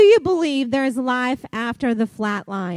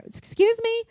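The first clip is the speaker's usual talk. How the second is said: much higher, incredulous question; mock disbelief; 10 semitones higher than usual. Real, not acted. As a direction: act amazed at what you just read. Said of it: "I just have to pause there".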